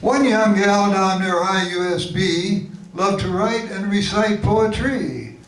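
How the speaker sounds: measured, lilting limerick reading; limerick recital. Acted. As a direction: recite it as comic verse. Recites own comic limericks.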